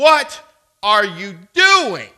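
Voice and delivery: furious, very loud, booming angry bark. Retelling what a driver said to him before driving away, in a mock-angry tone. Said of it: "he said to me in this angry tone".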